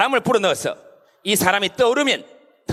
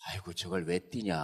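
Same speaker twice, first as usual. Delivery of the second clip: laid-back; 14 semitones lower, 14 dB quieter than usual. Acted. Easygoing Chungcheong local watching Usain Bolt run, languid and unbothered. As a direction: say it as if you'd never bother to hurry. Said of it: "이건 느긋한 거예요".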